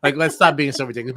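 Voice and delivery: mocking retort to a preachy teammate; mock exasperated retort. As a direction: snap back as if telling her off. Imagined retort to Dom.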